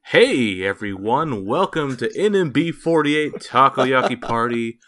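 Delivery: slow, loud, carefully spelled-out intro; English teacher voice. Pretend. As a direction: talk like a patient English teacher to learners. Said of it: "I'm gonna do this in my English teacher voice".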